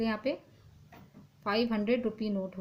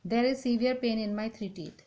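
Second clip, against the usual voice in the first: slow dictation; much slower than usual. Shown as a demonstration. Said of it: "यहाँ पे teeth हो जाएगा".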